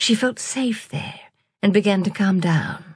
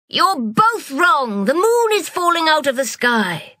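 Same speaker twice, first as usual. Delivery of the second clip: crying out; 8 semitones higher, 3 dB louder than usual. Acted. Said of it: "cried Deepa".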